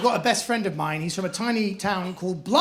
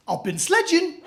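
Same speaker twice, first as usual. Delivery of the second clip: put-on Geordie accent; 8 semitones higher, slower than usual. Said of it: "he went".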